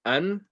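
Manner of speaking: "an" begun with a clean alif; alif sound. Shown as a demonstration. Teacher models the first word for learners, alif sound. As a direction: say "an" with a plain open vowel onset, no ain. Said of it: "make sure you're saying".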